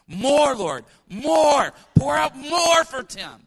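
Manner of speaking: loud slow fervent plea; fervent prayer shout. Retold or imitated. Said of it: "and I'm like".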